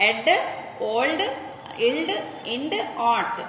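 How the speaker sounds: put-on Ed, old, ild, ind, ought each as one blended sound; isolated ending sounds. Shown as a demonstration. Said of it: "for the following sounds". (Ed, old, ild, ind, ought శబ్దాలను విడిగా పలకడం)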